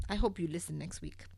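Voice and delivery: ordinary talk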